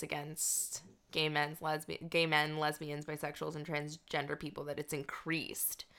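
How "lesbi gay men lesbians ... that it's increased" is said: whispering. Real, not acted. Grim news, voice drops.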